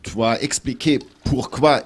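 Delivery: halting French with a German accent; broken french. Real, not acted. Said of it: "pardonnent que mon français n'est pas parfait".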